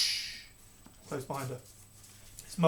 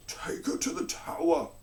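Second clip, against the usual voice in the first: high, slow, breathy command; cold royal order; 10 semitones higher than usual. A narrator's reading. King to his guards, a cold slow order. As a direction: pass sentence with no feeling. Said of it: "ordered the King".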